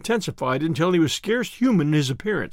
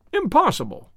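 higher, sharp disbelief; astonished cry; 7 semitones higher than usual. Acted. Inspector refusing Holmes's murder theory, astonished cry. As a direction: throw it out in shock. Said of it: "cried the inspector".

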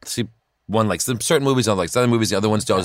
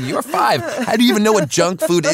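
higher, louder mock disbelief; incredulous; 11 semitones higher, 6 dB louder than usual. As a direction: play up the disbelief at a five-year-old. Dad's incredulous retort.

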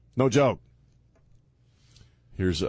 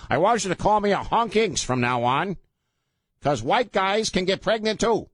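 higher-pitched mock white-guy voice; 4 semitones higher than usual. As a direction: put on a high, square white-guy caricature. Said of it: "let me use my white guy voice".

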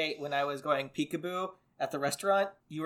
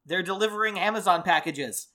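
ordinary delivery

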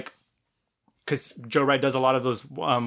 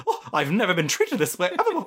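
quick, huffy mock indignation; 4 semitones higher, faster than usual. Podcaster imitates Lady Catherine huffing out, laughingly indignant. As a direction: play at storming off offended. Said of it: "she, like, huffs out".

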